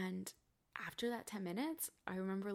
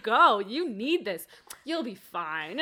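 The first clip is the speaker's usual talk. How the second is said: therapist urging; 2 semitones higher, 13 dB louder, much slower than usual. Retold or imitated. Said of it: "She was like".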